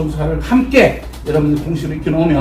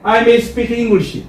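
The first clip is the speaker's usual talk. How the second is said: drawn out slowly for the class to echo; slow call-and-response; 3 semitones higher, much slower than usual. Shown as a demonstration. Teacher leads students in slow repetition. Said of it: "이십 프로".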